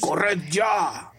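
Sirius, urgent cry. Acted. Sirius orders the children to flee now, urgent cry. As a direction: cry out an order without much volume. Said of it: "gritó Sirius".

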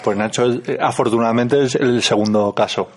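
con la boca llena de chuches; hablando con la boca llena. Real, not acted. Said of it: "no hables con la boca llena". (hablando con la boca llena, comiendo)

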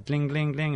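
playful spoken ring-ring of a phone; phone ringing noise. Pretend. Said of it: "Hacer la llamada".

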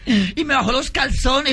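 put-on high coy girlish voice; girl's voice. Young woman confessing to priest, high coy voice.

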